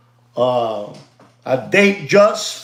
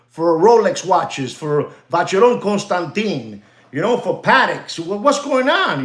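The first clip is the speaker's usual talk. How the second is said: mock shocked tourist. Shown as a demonstration. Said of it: "you tell 'em".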